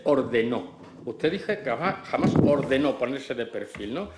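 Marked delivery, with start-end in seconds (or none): 0.0-0.8 "ordenó" set apart and hit firmly; stress on ordenó. Real, not acted. Questioner singles out a disputed word, with "ordenó" stressed. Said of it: "utilizo la palabra siguiente". 2.1-3.0 "ordenó" punched within the phrase; stress on ordenó. Real, not acted. Questioner quotes the witness's denial back, stressing "ordenó". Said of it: "utilizo la palabra siguiente".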